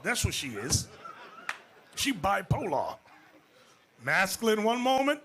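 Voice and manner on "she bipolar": laughing. Real, not acted. Preacher laughing at his verdict.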